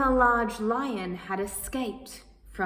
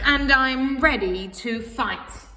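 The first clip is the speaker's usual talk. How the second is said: mild fighting talk; 2 semitones higher, 6 dB louder than usual. Acted. I'm mad now.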